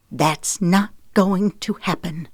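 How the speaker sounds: slow, level and final; flatly. Acted. Zoe flatly refuses her husband's plea, slow and even. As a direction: shut him down coldly. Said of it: "she said flatly".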